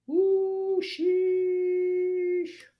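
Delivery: mock cheering. Streamer imitating traders celebrating a missed trade, mock whoop. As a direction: whoop it up like a gleeful winner.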